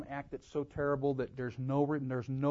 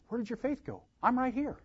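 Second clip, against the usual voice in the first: high, gentle reassurance; mild question, no condemnation; not rebuking; 10 semitones higher than usual. Acted. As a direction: reassure in a light, pitched-up voice. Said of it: "He wasn't rebuking him".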